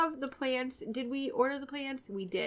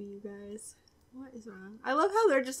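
ordinary delivery

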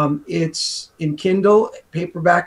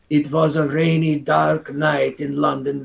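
pseudo Russian-Polish accent; slower than usual. Shown as a demonstration. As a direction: fake Eastern European accent, slowing on the last words. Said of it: "like a pseudo Russian or Polish accent".

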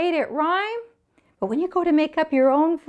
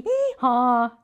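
donkey bray; 2 semitones lower than usual. Shown as a demonstration. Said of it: "Can you bray like a donkey".

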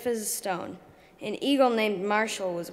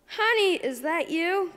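high, loud call from afar; 8 semitones higher, 4 dB louder than usual. Acted. Darko's mom calling for her son, high and loud. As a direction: call out to find your son. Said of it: "called a voice".

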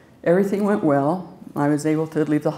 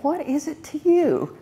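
mock snappy retort; 11 semitones higher, slower than usual. Retold sharp retort.

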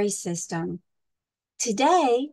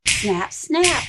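snarling crocs; 3 semitones higher, 5 dB louder than usual. Acted. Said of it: "snarled the hungry crocs".

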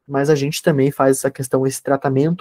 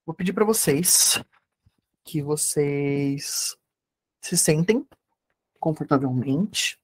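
guided meditation. Acted. (voz calma de meditação guiada)

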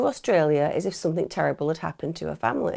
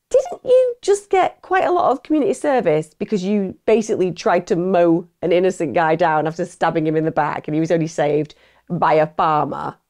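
pretend detective challenging; 3 dB louder than usual. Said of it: "been like".

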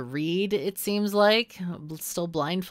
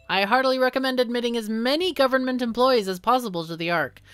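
smooth official voice; 6 semitones higher, 5 dB louder, faster than usual. Acted. Reads minister line in voice.

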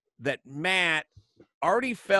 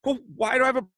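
1 exasperated; 10 semitones higher, 3 dB louder, faster than usual. Retold or imitated. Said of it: "I was like".

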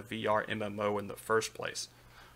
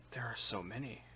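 soft-spoken; 9 dB quieter than usual. Acted. Fencer speaks softly from behind.

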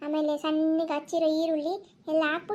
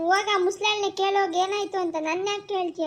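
put-on tearful child; 2 semitones higher than usual. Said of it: "ಯಾಕ ಅಳ್ತಾ ಇದ್ಯಾ?".

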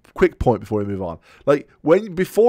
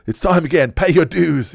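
lightly mocked pop-up nag, raised and singsong; a higher, mock-demanding announcement; nagging pop-up; 5 semitones higher, 4 dB louder than usual. Joking as the returning pop-up, mock nag.

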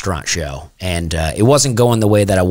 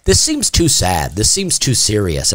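mock exec notes; slower than usual. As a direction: drag it out like a fussy note-giver. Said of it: "and they were like".

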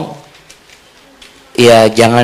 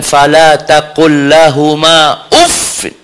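Quran recitation; 3 semitones higher, much slower than usual. Real, not acted. Recites Quran verse in sermon.

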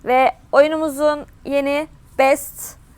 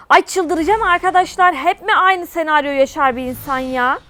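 exasperated rant; 4 semitones higher than usual. Real, not acted. Venting to viewers.

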